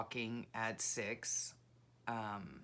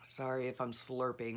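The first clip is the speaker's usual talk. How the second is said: sipping hot coffee. Real, not acted. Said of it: "take a sip of hot coffee".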